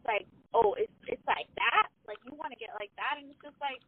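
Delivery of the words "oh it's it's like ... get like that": hood confrontation. Retold or imitated. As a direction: imitate a coworker getting mouthy. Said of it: "like, hood".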